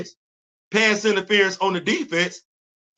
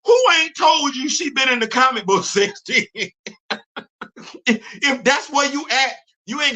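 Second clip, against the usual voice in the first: high, shouted disbelief at the fans; exasperated rant; 6 semitones higher than usual. Real, not acted. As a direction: yell it like you can't believe them. Ranting at MCU fans.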